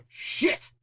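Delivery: sharp breathy whispered curse. Acted. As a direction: hiss the curse under your breath in shock. Discovers Jessica has fallen.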